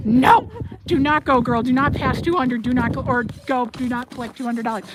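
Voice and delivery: loud playful no; mock scolding. Real, not acted. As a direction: scold the chat jokingly.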